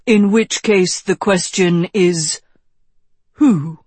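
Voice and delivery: a touch of a mentor's measured, emphatic delivery; lightly voiced wise wizard. Wizard challenging the young king about the sword, lightly voiced mentor. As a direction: press the point as the old wizard, lightly.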